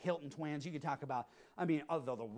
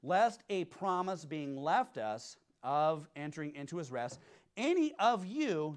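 slow, weighty reading of the verse; scripture reading; slower than usual. Acted. Preacher reading Hebrews to the congregation, slow and solemn. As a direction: read the verse out slowly, with weight. Reads scripture slowly aloud.

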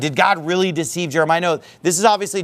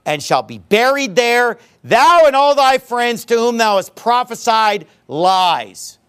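angry rebuke; 3 semitones higher than usual. Acted. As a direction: pronounce judgment on the persecutor, rising in force. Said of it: "the first reaction that he has here is anger".

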